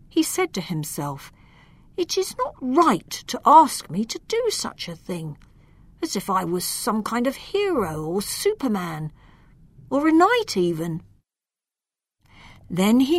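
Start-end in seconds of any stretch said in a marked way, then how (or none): 2.0-11.0 timid knight. Acted. Tim complains to himself.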